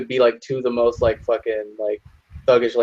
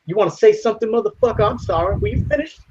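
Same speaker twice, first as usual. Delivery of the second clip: very high, challenging mock threat; confrontational; 10 semitones higher than usual. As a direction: get in his face, daring him. Acted confrontation over racist joke.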